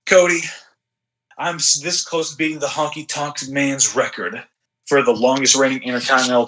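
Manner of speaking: lightly voiced gruff German wrestler; a measured warning with a hint of German accent; Gunther. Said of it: "he's like a gruffer".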